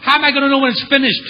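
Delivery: sponsor. Retold or imitated. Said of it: "He goes".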